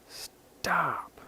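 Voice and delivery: sudden high-pitched "stop"; retold outburst. Snapping under overload, retold.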